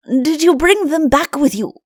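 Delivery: excited question. A narrator's reading. Chancellor eagerly asks the king about the stolen whiskers, excited. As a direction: burst out with the question, keen to know. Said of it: "asked the Chancellor excitedly".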